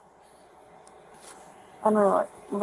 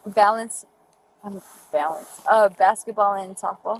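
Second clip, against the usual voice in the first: slurred speech. Real, not acted. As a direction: slur it, tipsy and loose. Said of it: "your slurring your words".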